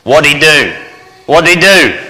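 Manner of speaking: high, rising alarm in the repeat; a startled mother asking what he did; alarmed mom. Retold or imitated.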